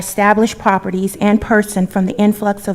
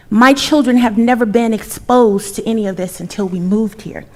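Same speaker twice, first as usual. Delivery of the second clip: loud, forceful protest; impassioned; 4 dB louder than usual. Real, not acted. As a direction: raise your voice in indignation. Angry resident confronting council.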